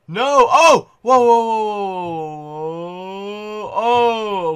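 sudden loud yelps of alarm; startled yelps. Real, not acted. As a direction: yelp in surprise as you fall. Scared gamer falling in game.

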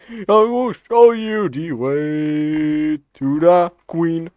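slow drawn-out chant of the meme line; Knuckles meme voice. Acted. Gamer chanting the meme line to teammates, slow and drawn-out. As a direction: stretch every word like a tribal chant.

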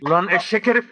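fast, heated telling-off; angry scolding. Acted. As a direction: scold an annoying prankster in rising pitch. Furious scolding of a prankster.

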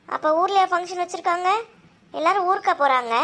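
high-pitched disbelief; astonished questioning. Acted. Hearing the function is in the village, astonished. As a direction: question it in rising amazement.

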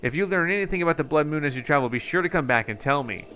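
game researcher, earnest explanation with lilting emphasis; lightly voiced absorbed researcher. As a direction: explain a mystery like a lightly acted scholar.

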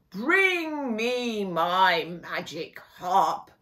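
slow, drawn-out giant demand; giant's command. Acted. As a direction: stretch each word like a lumbering giant. Giant orders the lady.

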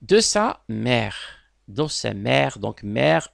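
teacher models "mère" with an open è sound. Shown as a demonstration. Teacher shows pupils the open è in "mère". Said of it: "E, ici il est ouvert".

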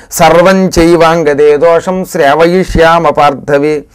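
slow, measured chanting of shlokas; Sanskrit verse recitation. Acted. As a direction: chant each line evenly with long drawn syllables. (నిదానంగా సాగదీస్తూ శ్లోక పఠనం)

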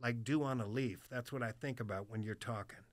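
lightly voiced old man confiding; old military man. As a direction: imitate an old veteran, deliberate and low. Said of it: "This old hard, like, military cat".

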